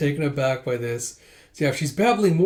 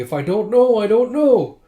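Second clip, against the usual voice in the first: higher and louder, throwing up her hands; exasperated outburst; 8 semitones higher, 8 dB louder than usual. Acted. Embarrassed girl snapping back at the laughing merchants, loud. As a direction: blurt it out, fed up.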